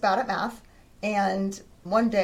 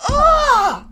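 much higher, loud wailing cry; frustrated outburst; 13 semitones higher, 8 dB louder, slower than usual. Retold or imitated. Frustrated daughter throwing her pencil, crying out loud. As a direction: wail it like a fed-up fourth grader. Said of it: "she got super frustrated".

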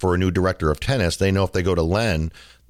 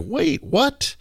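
much higher, incredulous "wait, what"; stunned disbelief. Retold or imitated. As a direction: jump up in pitch in sheer disbelief. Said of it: "And I was like".

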